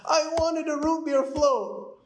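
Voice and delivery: put-on high, slow, whining child voice; whiny little girl. Daughter whining to her dad in the drive-thru, high and pleading. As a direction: play a sulky five-year-old. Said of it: "my daughter starts crying".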